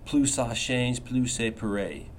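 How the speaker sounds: French phrase in a rough French accent. Shown as a demonstration. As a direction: say it in a self-conscious French accent. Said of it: "I know my French accent isn't, isn't very good".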